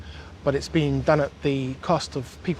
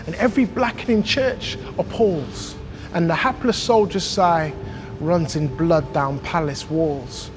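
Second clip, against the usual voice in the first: measured, emphatic poetry reading; poem recitation. Acted. Hip-hop artist performing Blake's angry London poem, emphatic recitation. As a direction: recite it with punched key words and deliberate pauses.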